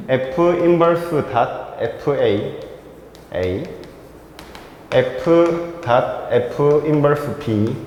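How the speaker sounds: slow symbol-by-symbol reading; formula read-out. Shown as a demonstration. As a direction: spell the notation out slowly, with gaps. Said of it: "자, 이렇게 읽어볼게".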